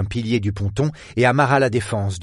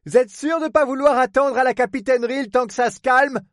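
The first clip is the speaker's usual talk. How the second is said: raised, mildly concerned question; worried; 13 semitones higher than usual. A narrator's reading. Port man asks her to wait out the storm, worried. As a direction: gently press her with concern in a higher voice.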